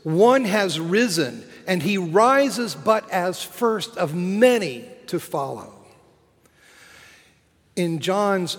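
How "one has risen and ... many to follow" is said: raised, ringing proclamation that settles at the end; triumphant cry. Acted. Preacher voicing Easter crying out its answer, triumphant cry. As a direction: proclaim it with punched key words. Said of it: "And Easter cries out".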